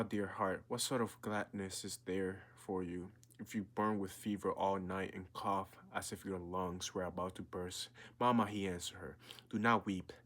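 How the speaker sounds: earnest, measured read-aloud of a novel; story reading. A narrator's reading. Reading a novel passage aloud to his viewers, earnest storytelling voice. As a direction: read the passage to draw the listener in.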